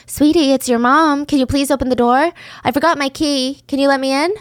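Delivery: lightly voiced coaxing mother; pretend mom. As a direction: pose as the kid's mom, coaxing. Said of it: "one of the female residents".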